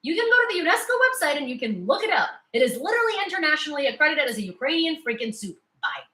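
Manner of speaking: sassy comeback. Pretend. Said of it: "I can tell them".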